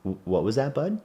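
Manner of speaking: choked-up question to his son; holding back tears. Retold or imitated. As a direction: voice barely held together. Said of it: "trying to keep it together".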